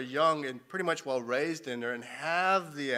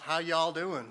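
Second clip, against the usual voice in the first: put-on Southern accent. Quoting Southerners to the audience, imitated Southern accent. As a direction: greet them in a mild Southern accent. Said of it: "they say in the South".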